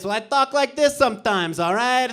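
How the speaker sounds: high tone. Shown as a demonstration. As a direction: pitch it up to show the tone. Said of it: "why are you talking like this".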